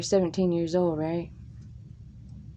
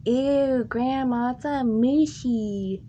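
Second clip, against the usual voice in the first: higher, slow disgusted whine; grossed out; 5 semitones higher, slower than usual. Retold or imitated. Kid looking at mushy cauliflower, higher whiny disgust. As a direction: complain like a picky kid. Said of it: "I was like".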